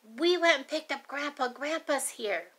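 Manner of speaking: a hint of an excited little girl; bright child's announcement, lightly voiced; mildly excited kid voice. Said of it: "she ran outside all excited".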